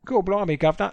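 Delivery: light mock cockney; a hint of old London street talk. Friend contrasting class accents, mild cockney accent. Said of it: "you had".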